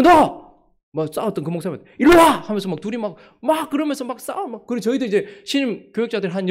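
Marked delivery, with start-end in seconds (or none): 0.0-0.5 sharp, loud, high shout; angry yell. Retold or imitated. Pastor yells at opponent. 2.0-2.4 sharp, loud, high shout; angry yell. Retold or imitated. Pastor yells at opponent.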